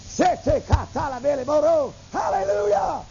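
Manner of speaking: high, fervent burst of tongues rising to a hallelujah; speaking in tongues. Retold or imitated. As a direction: pray in tongues as if carried away. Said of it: "I just start worshiping Jesus".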